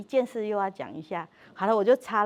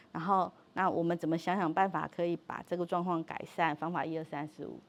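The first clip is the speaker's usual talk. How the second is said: put-on calm gentle talk to child; 4 semitones lower, 5 dB quieter than usual. Shown as a demonstration. Therapist showing parents how to talk calmly, softly. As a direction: model it calmly, softly for the kids. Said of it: "可以模仿一下我这样跟孩子讲话".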